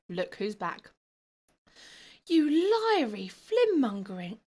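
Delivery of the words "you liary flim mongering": ghost's angry outburst. Acted. Ghost Grobler insults, shouting.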